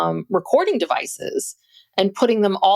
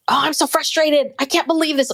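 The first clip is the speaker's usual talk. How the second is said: mock frustrated; 8 semitones higher than usual. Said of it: "usually it would be like".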